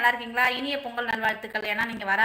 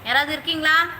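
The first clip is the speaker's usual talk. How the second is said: loud, raised-pitch call; 4 semitones higher, 3 dB louder than usual. Real, not acted. Streamer calling to missing viewers, loud shout. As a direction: shout out to see who is there. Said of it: "ஐயோ, இப்படி கத்த விட்டாங்களே".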